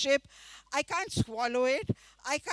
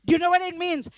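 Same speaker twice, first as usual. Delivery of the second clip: shocked, raised voice; 6 semitones higher, 7 dB louder, faster than usual. Retold or imitated. Teacher shocked.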